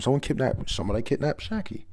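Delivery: half-hearted imitation of screaming; mild mock scream. Retelling the crowd's alarm, mild mock screaming. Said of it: "They're all screaming".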